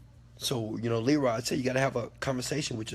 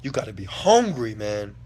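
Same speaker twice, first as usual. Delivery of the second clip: quoting Les Brown; 2 semitones lower, 6 dB louder than usual. Retold or imitated. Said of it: "He said".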